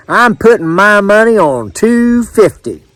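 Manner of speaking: high-pitched betting voice; confident bettor. A narrator's reading. Edwards putting his money on a guess, high confident voice. Fairgoer making his bet.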